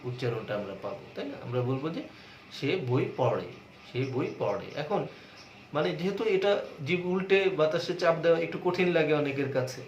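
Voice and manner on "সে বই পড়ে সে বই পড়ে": পড়ে with a curled-tongue ṛ flap; retroflex ṛ demo. Shown as a demonstration. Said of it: "উল্টে একটু বাতাসে চাপ দিতে হবে".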